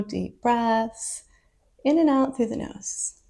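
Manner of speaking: calm, spacious centering instructions; guided meditation. Real, not acted. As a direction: ease them gently into stillness.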